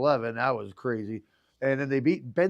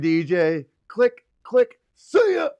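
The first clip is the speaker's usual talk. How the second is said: excited play-by-play call, high and loud; spiked announcer shout for a homer; replaying his radio call; 5 semitones higher, 7 dB louder, much slower than usual. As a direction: relive the home run call like it's live. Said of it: "My call of the year".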